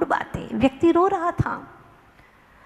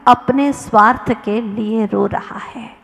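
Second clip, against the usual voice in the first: whispered punchline; 3 semitones lower than usual. Acted. Preacher reveals the moral.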